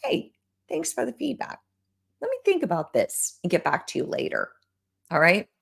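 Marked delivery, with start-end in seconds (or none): 0.0-4.5 soft, composed reply to feedback; calm thanks. Pretend. Coach answering a client's feedback, calm and soft. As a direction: answer the client evenly, no edge. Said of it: "then you can respond".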